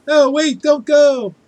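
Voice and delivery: high loud pleading cry; mock pleading. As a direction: beg them to stay. Pleading with leaving viewer.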